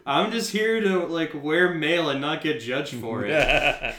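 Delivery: high, loud panicked refusal; high excited protest. Acted. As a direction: yelp out a frantic protest. Acting out his refusal in roleplay.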